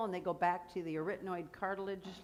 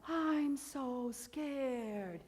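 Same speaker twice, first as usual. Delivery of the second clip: very slow, higher, sighing "I'm so scared"; mock scared sigh; 6 semitones higher, much slower than usual. Shown as a demonstration. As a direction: breathe it out like a mock fright. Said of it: "Say that".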